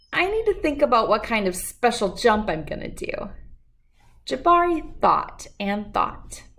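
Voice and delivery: gentle, lively storybook reading; reading to children. Acted. Reading Jabari Jumps aloud to children, storybook voice. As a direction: read the picture book to the kids. Reads picture book aloud.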